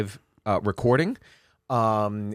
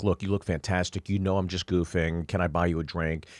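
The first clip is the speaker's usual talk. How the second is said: soft placating; 6 semitones lower, 5 dB quieter than usual. Retold or imitated. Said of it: "And I'm just like".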